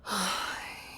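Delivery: soft exhaled sigh; quiet, breath-out sigh; patient sigh. Acted. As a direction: sigh before conceding the point. Boss answering employee's protest.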